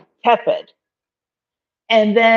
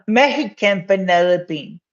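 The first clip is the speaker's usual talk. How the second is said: "Mexican" with a Spanish h sound, a light Mexican accent; a hint of a Mexican accent, said for fun; playful Mexican accent. Shown as a demonstration. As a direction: try a Mexican accent on "Mexican vanilla bean". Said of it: "how's my, um, Mexican accent?".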